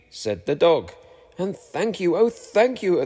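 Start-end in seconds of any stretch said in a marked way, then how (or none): 1.4-3.0 grateful thanks. A narrator's reading. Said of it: "the grateful witch cried".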